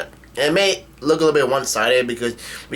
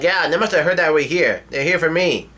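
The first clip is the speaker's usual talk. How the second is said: higher-pitched, mild mock yell; half-hearted yelp, pitched up; retold yell; 4 semitones higher than usual. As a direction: imitate an alarmed yell without really shouting. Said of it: "Nami yells like".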